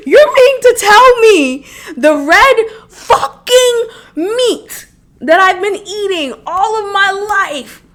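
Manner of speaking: high, loud, half-laughing, half-crying; laugh-cry through the outrage; laughing in disbelief. Real, not acted. Disbelief at diet news.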